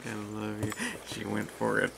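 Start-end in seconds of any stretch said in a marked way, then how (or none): 0.1-0.7 softly quoted sweet nothing; imitated gentle affection. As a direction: mimic a tender, softer line. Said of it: "all nice and gentle".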